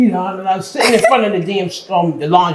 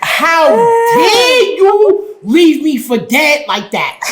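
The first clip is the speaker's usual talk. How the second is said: indignant retold confrontation; 6 semitones higher, slower than usual. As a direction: stretch every word like you can't believe it. Retelling confronting her boyfriend.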